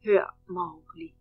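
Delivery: slow, gentle bear voice; kindly. Acted. Baloo gently calls Mowgli down, slow and kind. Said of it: "sagde Baloo venligt".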